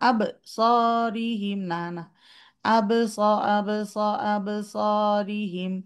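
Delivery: slow আব সরিহিম with a cut after আব; mock a student's broken ba; imitated student mistake; imitating a wrong reading. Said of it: "আপুরা অনেকেই পড়তেছে".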